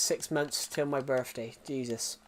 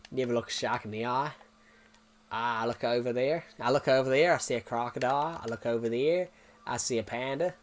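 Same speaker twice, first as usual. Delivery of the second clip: put-on Australian accent; 3 semitones lower than usual. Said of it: "did my Australian accent".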